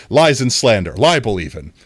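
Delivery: loud, hammed-up protest; mock indignation. Streamer denying a viewer's accusation, mock indignant. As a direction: protest as if grandly wronged.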